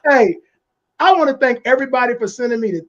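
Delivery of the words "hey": zombie voice. Pretend. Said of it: "gonna use my zombie voice".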